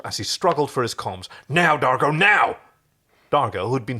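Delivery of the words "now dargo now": urgent cry. Acted. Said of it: "heard John's cry".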